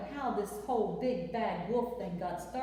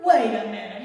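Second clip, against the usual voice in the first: much louder startled wait a minute; sudden surprise; 2 semitones lower, 14 dB louder than usual. Acted. Wolf shocked that the house didn't fall, loud. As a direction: burst out in surprise.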